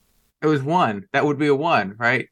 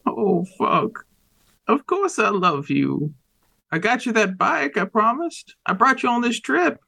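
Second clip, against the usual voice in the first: desperate pleading father; 6 semitones higher than usual. Acted.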